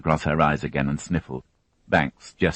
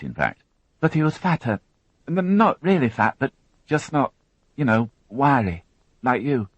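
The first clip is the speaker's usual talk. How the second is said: put-on higher, tense young woman recounting an ordeal; higher, strained witness voice; Alison, shaken young witness; 7 semitones higher than usual. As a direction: voice her as a frightened girl holding it together. Alison describes men.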